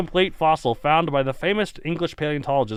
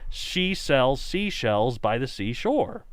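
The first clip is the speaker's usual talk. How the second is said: slow recitation; much slower than usual. Shown as a demonstration. Reciting tongue twister slowly.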